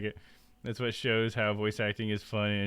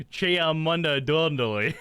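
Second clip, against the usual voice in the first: Chumley's gibberish; 6 semitones higher, 6 dB louder, slower than usual. Retold or imitated. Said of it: "Chumley goes".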